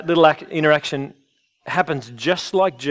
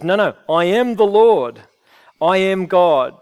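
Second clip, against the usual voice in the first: firm, raised declaration; emphatic declaration; 3 semitones higher, 4 dB louder than usual. Acted. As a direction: proclaim it boldly. Emphatic claim voiced for Jesus.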